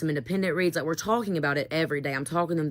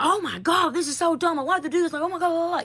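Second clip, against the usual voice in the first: much higher, whiny mocking teen voice; mock the whining students, pitched way up; whiny teenagers mocked; 12 semitones higher, 3 dB louder than usual. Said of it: "yelling at me".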